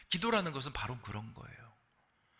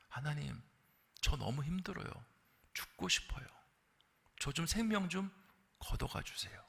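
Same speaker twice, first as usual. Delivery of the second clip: soft, fading plea, breath at the end; hushed desperate prayer; despairing prayer; 7 dB quieter than usual. Pretend. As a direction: pray like someone who wants to die.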